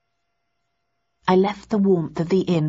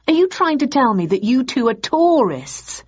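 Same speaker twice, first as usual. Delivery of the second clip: exasperated demand; 7 semitones higher, 4 dB louder than usual. Acted. Thursday angrily confronting tourists.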